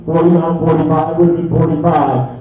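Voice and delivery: rolling rhythmic auction chant; auctioneer. Real, not acted. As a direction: rattle off the bids in a steady chant. Live auction bid calling.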